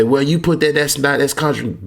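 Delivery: imitating a doubter. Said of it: "You say".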